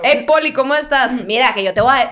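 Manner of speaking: imitated Venezuelan chatter; Venezuelan accent. Imitating two Venezuelans bickering, Venezuelan accent. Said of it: "haces un buen acento venezolano".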